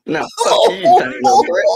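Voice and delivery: high shrieking insult; shrill playful insult shout; mock shouting. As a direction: yell it back at the dwarf. Player yells back at dwarf.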